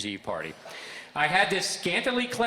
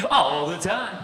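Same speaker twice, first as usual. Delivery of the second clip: a touch of announcer, higher and louder; 3 semitones higher, 5 dB louder, slower than usual. Retold or imitated. DJ boss confirming he always talks like an announcer. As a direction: answer smugly like a radio host. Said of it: "Do you normally talk like this?".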